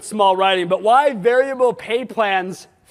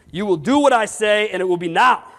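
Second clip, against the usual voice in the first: mock bossy order. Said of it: "I don't want this".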